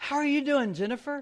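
mock bright, very cheerful, high voice. Retelling how they greeted someone the third time, in a very cheerful voice. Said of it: "in a very cheerful voice".

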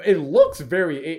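loud voice cracking mid-word on eight. Weighing two movie picks in a group discussion, voice cracking. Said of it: "my voice really just cracked".

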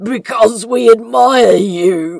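very loud, gravelly pleading, "you" drawn out. The narrator voices the big demon speaking up to Crowley, low, gravelly voice. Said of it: "spoke up in a low, gravelly voice".

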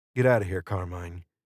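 ordinary delivery

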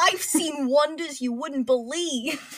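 slow, drawn-out put-on New York accent. Pitching lines for an old newsboy character: New York accent. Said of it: "Also New York".

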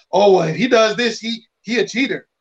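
ordinary delivery

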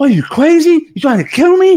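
very high, climbing, rising screamed yell. Retelling a story where a man pulled from the water is screaming.

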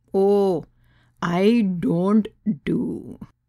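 put-on very slow speech, heavy, thick Indian accent. Reading a story aloud, voicing a guest's reply: thick indian accent. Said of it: "in her thick Indian accent".

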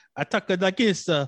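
high, loud mock Italian accent. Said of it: "I do an Italian accent".

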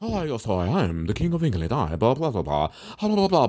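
bad, put-on, lordly, posh English accent. Speaker mocking how men in suits talk, mock British accent. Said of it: "they always talk with some fucked up accent, some British shit".

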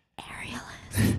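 soft unvoiced whisper.

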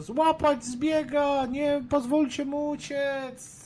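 put-on piping young mouse squeak, very high and thin. Chasing a fleeing man, the character shouts to the others: thin squeaky young-mouse voice. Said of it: "cienkim, piskliwym głosem młodej myszy".

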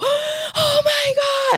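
very high, shrieking scream. Acting out a stranger rushing at your face: imitating someone screaming. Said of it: "screaming and going like this in your face".

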